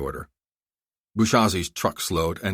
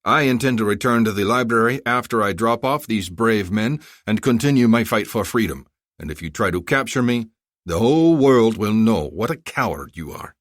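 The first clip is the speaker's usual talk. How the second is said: defiant general; 4 semitones higher, 5 dB louder than usual. Acted. General defies the colonel.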